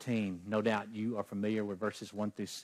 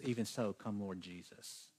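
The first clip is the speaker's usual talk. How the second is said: teary prayer; 3 semitones lower, 9 dB quieter than usual. Real, not acted. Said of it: "trying not to get teary-eyed".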